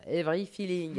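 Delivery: hammed-up French accent on English words; playful French accent. Shown as a demonstration. Host mocks own pronunciation of a song title, playful French accent. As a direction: say "Every Feeling" very French, amused. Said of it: "Bien avec l'accent français, ça".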